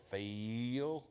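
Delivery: slow, stretched Southern drawl with a laugh; lightly imitating her drawl; drawled Phil. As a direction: draw out the name lazily. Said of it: "She said".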